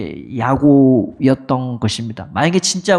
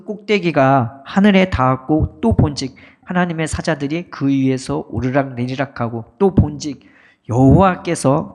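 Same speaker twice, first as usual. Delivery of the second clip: steady, measured Bible reading; formal recitation of scripture; 3 semitones lower than usual. Real, not acted. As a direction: read the passage out solemnly to the congregation. Reads the Bible passage aloud.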